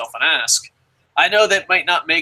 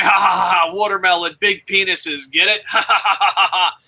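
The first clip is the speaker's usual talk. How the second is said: imitating his own jeering laugh, then real laughter; retold mocking laugh spilling into a real one; 2 semitones higher than usual. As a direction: cackle along with the group's joke. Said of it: "I was like".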